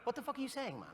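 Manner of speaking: calling cut, bewildered; American co-star. Retold or imitated. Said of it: "He was like".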